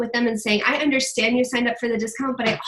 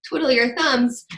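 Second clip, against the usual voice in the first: emphatic agreement; 8 semitones higher, 3 dB louder than usual. Retold or imitated. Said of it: "And it's like".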